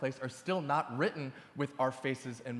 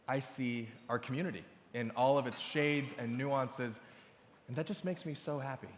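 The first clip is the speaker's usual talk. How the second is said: tender sincerity. Acted. Host turns tender before a punchline.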